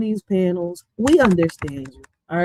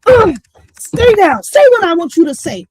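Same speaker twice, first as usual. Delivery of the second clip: mocking whine; 9 semitones higher, 7 dB louder than usual.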